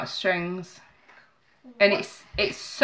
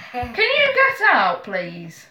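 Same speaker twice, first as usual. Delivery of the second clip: calling out; 2 semitones higher, much slower than usual. Real, not acted. Mum sends child out of room.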